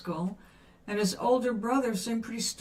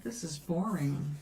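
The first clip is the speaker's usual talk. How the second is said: bored; 4 semitones lower, 4 dB quieter than usual. Retold or imitated. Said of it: "I said".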